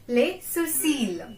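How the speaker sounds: Les sourcils said slowly with the ending held; slow model pronunciation. Shown as a demonstration. Teacher repeating Les sourcils slowly for students. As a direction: draw out Les sourcils carefully. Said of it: "A quite hard word".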